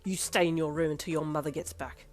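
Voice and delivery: father grounding his daughter, seething. Acted. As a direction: seethe the punishment out. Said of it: "your dad seethed".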